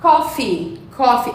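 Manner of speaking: "Coffee" with a long EE at the end; prolonged final I. Shown as a demonstration. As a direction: say "Coffee" as KOF-eee, holding the last vowel. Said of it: "Então, de novo".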